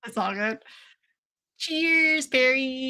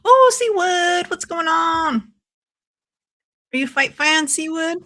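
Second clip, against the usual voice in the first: excited greeting; 6 semitones higher, 5 dB louder than usual. Real, not acted. Greeting a viewer loudly.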